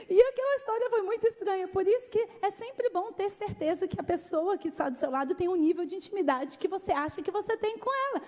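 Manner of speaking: ordinary delivery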